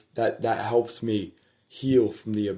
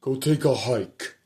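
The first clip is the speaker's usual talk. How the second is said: dad's line; 4 semitones higher, 3 dB louder than usual. Retold or imitated. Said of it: "I used my dad's line".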